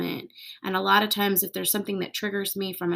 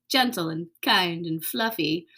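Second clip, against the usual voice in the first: ordinary delivery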